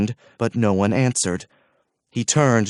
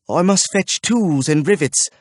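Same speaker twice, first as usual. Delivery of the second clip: higher, curt answer; grim reply; 6 semitones higher than usual. A narrator's reading. Smith answers the archer, curt. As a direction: say it through restraint.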